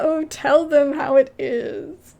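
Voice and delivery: loud, slow cheer for her; excited cheering. Real, not acted. Cheering on Chica the strong heroine, loud and excited. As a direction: whoop her on like a fan in the stands.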